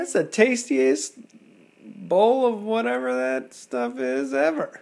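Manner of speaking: high slow enthusing voice; high baby-talk voice. Acted. Dad voicing baby's delight.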